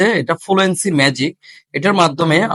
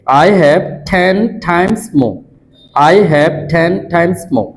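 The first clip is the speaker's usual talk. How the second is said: "I have ten times more" drawn out very slowly, the r of "more" dropped; slow drill; much slower than usual. Shown as a demonstration. Teacher repeating the drill line slowly for students. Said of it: "এভাবে এক নিঃশ্বাসে দশ বারের মতো".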